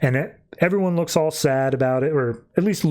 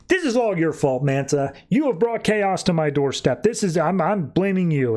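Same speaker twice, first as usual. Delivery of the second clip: higher-pitched mock-angry blaming; acted accusation; 4 semitones higher than usual. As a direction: lay the blame indignantly, pitched up. Acted quarrel, Saladin blames Manta.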